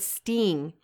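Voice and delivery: STING with a long "ee", "steeng"; "sting" echoed as "steeng"; imitated accent. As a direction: mimic the friend's sting, vowel as in "see". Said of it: "You say sting".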